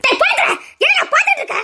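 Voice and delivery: high, tearful pleading; crying plea. Acted. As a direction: beg him through sobs to stop it. Mother pleading with her brother.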